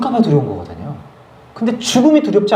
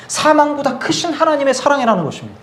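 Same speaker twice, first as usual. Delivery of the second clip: usual speaking voice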